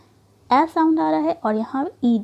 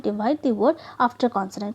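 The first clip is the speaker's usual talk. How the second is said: slow rule reading; 2 semitones lower, much slower than usual. Shown as a demonstration. Teacher reading a spelling rule to the class, very slowly. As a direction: read the rule very slowly and deliberately. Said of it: "reading rule slowly".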